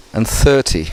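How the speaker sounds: thirty with the weight on THIR; thirty, first syllable stressed. Shown as a demonstration. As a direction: hit the start of thirty. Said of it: "we stress the beginning bit".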